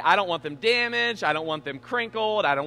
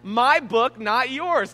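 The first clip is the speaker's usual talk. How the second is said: raised, louder angry scolding; retold outburst at his daughter, higher and louder; angry yell; 6 semitones higher, 6 dB louder, slower than usual. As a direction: scold the toddler sharply, voice up and loud. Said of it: "I was angry".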